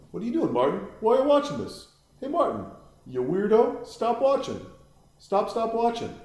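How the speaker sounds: high calls at Martin; yelling at the screen. Real, not acted. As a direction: shout at the character to stop.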